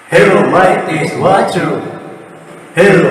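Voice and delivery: alien voice with echo; echoing alien mic effect; digital echo. Shown as a demonstration. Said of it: "may alien siya, at saka may echo".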